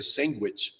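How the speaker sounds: "sandwich" said as sang-wich; "sandwich" with ng in place of nd; father-in-law's "sandwich". Retold or imitated. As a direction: put an ng in "sandwich", like sangwich. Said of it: "my father-in-law used to say".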